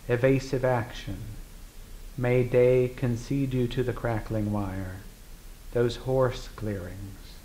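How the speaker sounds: measured poetry reading with deliberate pauses; poem recital. Acted. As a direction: read it as verse, phrase by phrase, each opening firmly placed. Reads a poem aloud.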